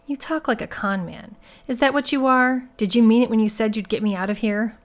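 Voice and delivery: upset, accusing challenge. Acted. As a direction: press them for the truth, voice lifted. Woman accuses rescuer of conning her.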